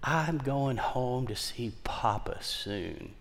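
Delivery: put-on frail old lady. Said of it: "she talks with a big twang".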